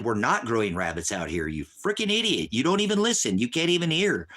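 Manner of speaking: exasperated shout at a commenter who won't listen; angry yell. Real, not acted. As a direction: shout him down with real fury. Yelling at a chat user.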